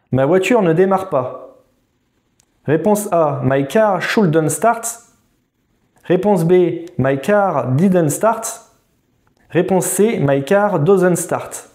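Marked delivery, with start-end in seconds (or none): 3.4-4.9 slow dictation. Shown as a demonstration. Quiz host reading answer options. 7.0-8.6 slow dictation. Shown as a demonstration. Quiz host reading answer options. 10.2-11.7 slow dictation. Shown as a demonstration. Quiz host reading answer options.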